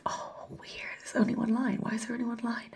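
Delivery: rising, baffled questioning; stunned by one line; puzzled surprise. Real, not acted. Confused at negative test.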